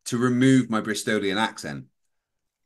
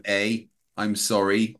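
mildly put-on Canadian accent; 3 semitones lower, slower than usual. Shown as a demonstration. Host obliges chat with Canadian clichés, mock Canadian accent. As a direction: play the apologetic Canadian lightly. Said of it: "Now I've got to do a Canadian one".

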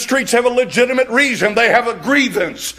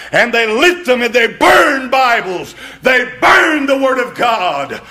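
outraged preaching; 3 semitones higher than usual. Acted. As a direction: hammer home the outrage to the crowd.

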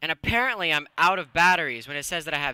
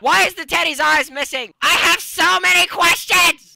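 higher and louder, building panic; rising frantic; 12 semitones higher, 14 dB louder than usual. Real, not acted. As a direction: spiral up into frantic questions. Overwhelmed by creepy discoveries.

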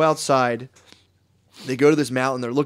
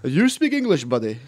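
mock Asian accent; 2 semitones higher than usual. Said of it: "The Asian man".

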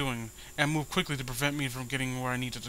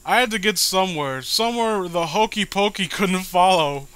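stifled laughter; 5 semitones higher, 9 dB louder than usual. Real, not acted. Rereads, fighting off laughter.

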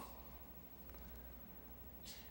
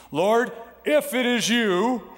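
Peter asking; 5 semitones higher, 3 dB louder than usual. Acted. Peter voiced asking for proof.

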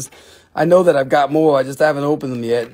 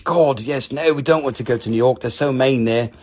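lower, put-on British voice; British accent; 4 semitones lower than usual. Seller flees mean New York, put-on British accent. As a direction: switch back into mock British. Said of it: "back to British".

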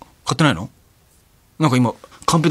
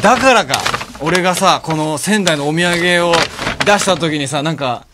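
excited; 5 semitones higher, 3 dB louder than usual. Real, not acted. Realizing the gift's meaning.

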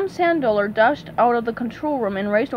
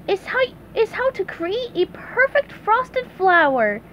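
SpongeBob voice; 10 semitones higher than usual. Acted. SpongeBob explains on air.

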